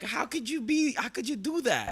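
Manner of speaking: high, shocked accusing voice; appalled accusers. Retold or imitated. People judging the director over his set, high and appalled. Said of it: "they're viewing you like".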